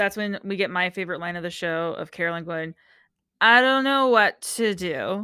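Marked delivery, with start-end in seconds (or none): 3.4-5.3 mock-drunk voice, louder, much slower. Quoting a favorite line from a TV show, imitating Carolyn's drunk-sounding voice. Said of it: "she always sounds drunk".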